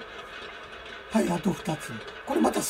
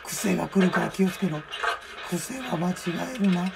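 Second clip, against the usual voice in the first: put-on creaky wise old man; 3 semitones lower, 4 dB quieter than usual. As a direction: speak like an old sage.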